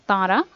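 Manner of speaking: "Tara" with the first vowel nasalized. Shown as a demonstration. Teacher explains the half moon mark, "Tara" nasalized. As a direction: send the first a of "Tara" through the nose. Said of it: "half moon, it is going to be pronounced as".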